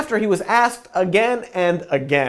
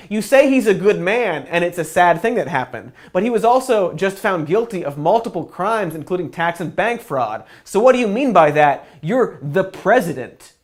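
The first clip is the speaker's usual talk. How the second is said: insistent imagined heckle, slightly raised; mild mock shout. Imagined reporter challenging the president, mild mock shout. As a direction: challenge him like a reporter calling out. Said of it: "somebody did shout".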